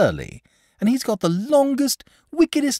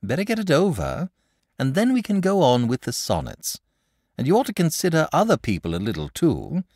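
put-on earnest pleading boy; imploring; 6 semitones higher, 3 dB louder than usual. A narrator's reading. Boy pleading with the dragon to fight. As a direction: urge him, half begging. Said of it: "said the boy imploringly".

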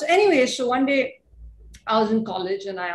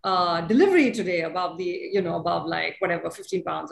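put-on Chinese accent; 3 semitones lower than usual. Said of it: "in this Chinese accent".

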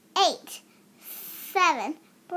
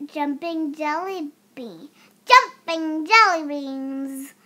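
exclaimed. Acted. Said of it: "exclaimed Uncle Howie".

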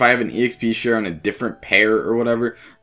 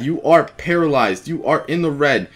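exasperated pleading; 4 semitones higher, 3 dB louder than usual. Real, not acted. Pleading with the wild Pokemon.

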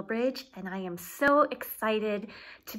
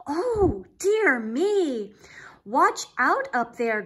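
higher, louder alarmed warning; worried cry; 4 semitones higher, 5 dB louder, slower than usual. Acted. Trevor warning Pig the pile is wobbling, alarmed cry. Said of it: "good Trevor did cry".

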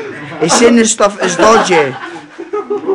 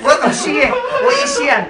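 cracking up while shouting at him; 3 dB quieter than usual. Real, not acted. Friend high, laughing at tripping mate.

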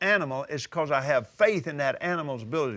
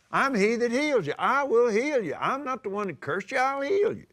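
higher, assured divine promise; lightly raised, confident voice of God; 5 semitones higher than usual. Acted. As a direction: speak as God reassuring his people. Voicing God's promise.

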